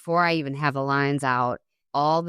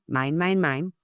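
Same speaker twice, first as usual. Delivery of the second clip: mock greedy kid. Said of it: "from self-centeredness".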